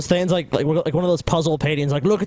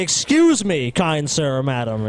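mock polite gentleman; 3 semitones lower, slower than usual. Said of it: "We say".

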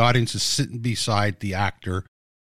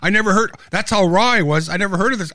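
animated disbelief; 8 semitones higher than usual. Retold or imitated. Recalls not knowing Fellini.

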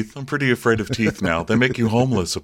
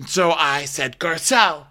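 higher mock insistence; mock argument; 6 semitones higher than usual. Rinna accusing Garcelle of defensiveness, high mock insistence. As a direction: press the point in a raised put-on voice. Acted Rinna in retold quarrel.

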